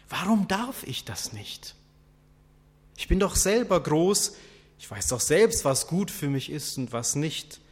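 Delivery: defiant protest. Acted. Defiant voice of doubting humans.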